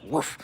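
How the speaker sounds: soft, breathy whoosh of overwhelm; puffed-out mock woof; exhaled woof. Mimics the exasperating last straw.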